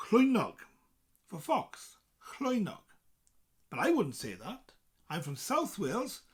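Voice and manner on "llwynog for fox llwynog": llwynog, careful Welsh. Shown as a demonstration. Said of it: "they would say".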